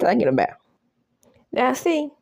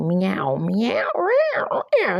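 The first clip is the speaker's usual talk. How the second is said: mock cat meows; 2 semitones higher, much slower than usual. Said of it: "she starts making all kind of cat noise".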